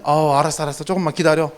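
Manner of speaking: put-on quietly putting a child off; placating father. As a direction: imitate a parent half-listening to a nagging kid. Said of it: "그럼 아버지 처음에는".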